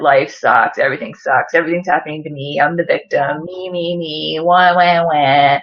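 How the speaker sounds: mope like a self-pitying victim; mock whiny victim. Mocking her old prisoner mindset, low whiny wah wah.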